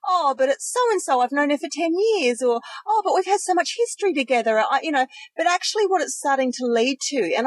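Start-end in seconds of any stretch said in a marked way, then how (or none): 0.1-2.4 lightly voiced doubting inner voice, higher; a hint of the little voice in your head. Friend imitating your second thoughts, lightly voiced inner voice. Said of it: "the little voice in your head will go". 2.9-4.6 higher-pitched voice of second thoughts; little inner voice. Acted. Friend making excuses for a toxic friend, little inner voice. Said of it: "the little voice in your head will go".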